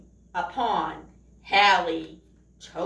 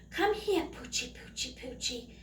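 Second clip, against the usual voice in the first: soft coaxing call to a dog; coaxing whisper; 8 dB quieter than usual. Acted. Burglar luring the dog in the dark, coaxing whisper. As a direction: whisper sweetly to lure the puppy close. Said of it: "whispered the other".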